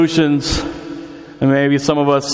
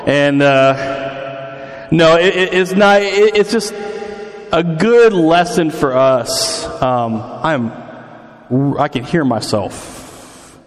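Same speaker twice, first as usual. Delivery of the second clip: big hall echo; 3 semitones lower, slower than usual. Real, not acted. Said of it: "I'm echoing in my own head".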